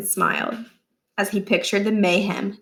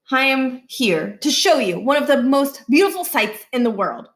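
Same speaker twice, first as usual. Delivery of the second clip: grandiose presenter; 4 semitones higher, 3 dB louder than usual. Acted.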